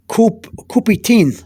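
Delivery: put-on "Coupe-tine" said as koo-pee-TEEN; pronunciation demo. Shown as a demonstration. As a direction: model "Coupe-tine" with a long final teen. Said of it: "I put down how to, how you pronounce it".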